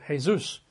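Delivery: Jesus pronounced hay-ZOOS; Spanish-style Jesus, J as a breathed H; Spanish pronunciation. Shown as a demonstration. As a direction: say Jesus with the second syllable stressed, as in Spanish. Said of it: "but it's pronounced Jesus".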